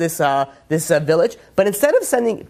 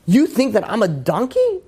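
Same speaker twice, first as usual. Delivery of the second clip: slow, raised, higher indignant question; mock royal outrage, pitched up; outraged king; 5 semitones higher than usual. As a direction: play an insulted king, drawing it out.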